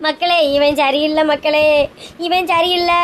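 slow, drawn-out mock lament; wailing complaint. Wife complaining of her husband to all, wailing. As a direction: drag the vowels into a sob.

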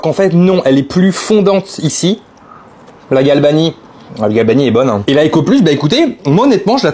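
words slightly muffled by food; talking while chewing. Real, not acted. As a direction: mouth partly full of cheese. Seen 3: lips pursed, jaw working after tasting; plain speech from 2.3.

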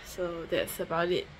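usual speaking voice

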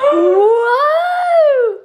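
long high delighted whoa; amazed whoa. Real, not acted. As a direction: gasp out a stunned whoa. First look at the cake.

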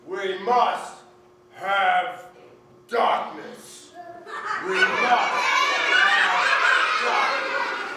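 slow, loud menacing bear; lightly voiced bear, loud and slow; bully bear. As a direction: drag it out like a big bully bear. Bully bear's demand.

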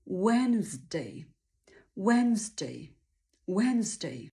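"Wednesday" as wenz plus a quick day; quick day ending. Shown as a demonstration. Teacher assembles the whole word, wenz with quick day. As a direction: silent first d in "Wednesday", short day. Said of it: "dorzucamy szybkie day".

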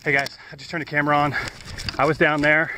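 rushing in, keyed up by the scream; breathless treasure hunter. Real, not acted. Rushing over after a scream.

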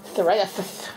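slow, half-hearted mock German accent, psoriasis as thoreiathith; a deliberately bad German accent, slowly; poor German accent. Explaining his dry skin to viewers in a poor German accent. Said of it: "That was a very poor German accent there".

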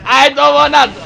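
high, loud whiny "don't wanna"; mock character cry. Streamer mimicking the fighter losing, high whiny cry. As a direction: squeal it like the game fighter.

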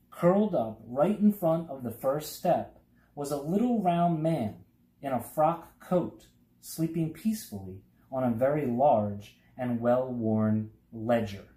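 plain reading voice

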